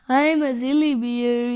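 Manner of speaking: lightly voiced silly bear; understated amused bear; mock giggle. A narrator's reading. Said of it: "he giggled".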